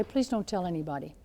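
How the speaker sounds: soft, secretive plea; pleading quietly. Retold or imitated. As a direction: hush it like a secret. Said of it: "and say".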